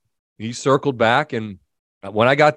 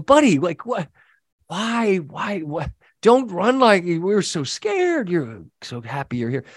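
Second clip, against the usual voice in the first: talking to the dog; 5 semitones higher than usual. Retold or imitated.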